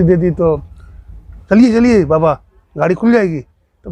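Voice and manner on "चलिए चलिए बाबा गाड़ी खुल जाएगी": urgent hurrying. Acted. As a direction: hurry him along before the train goes. Hurrying companion before train leaves. (जल्दी मचाते हुए)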